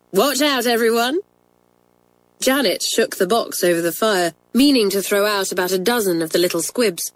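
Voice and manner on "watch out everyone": higher, playful call to the class; gleeful warning. A narrator's reading. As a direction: warn them with glee.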